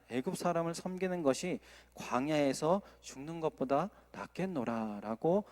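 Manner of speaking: measured, solemn Bible reading; scripture reading. Acted. Preacher reading Exodus to the congregation, solemn. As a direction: read the verse with weight. Reads scripture passage aloud.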